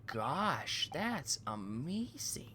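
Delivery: slow, breathless whisper; awed whisper. Acted. Impressed listener whispers at the guard's boast. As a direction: whisper it in mock wonder. Mock awe at the sailor.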